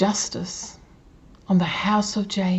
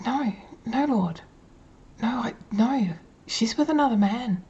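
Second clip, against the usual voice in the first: higher-pitched, reluctant protest; acted pleading refusal; 3 semitones higher than usual. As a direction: balk at an order, pleading in a raised pitch. Acted protest to God's command.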